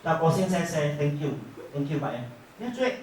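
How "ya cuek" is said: high, laughing words. Real, not acted. Agent recalls the cold client, laughing. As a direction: laugh it out, pitched up.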